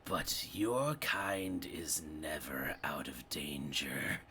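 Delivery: slow, eerie whisper from the dark; slow creepy ghost whisper; whispering spirit. Acted. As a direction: breathe it out like a lurking shadow.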